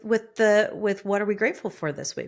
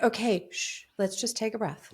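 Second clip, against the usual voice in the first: soothing hush; 6 dB quieter than usual. Shown as a demonstration. Voicing calming breath cue.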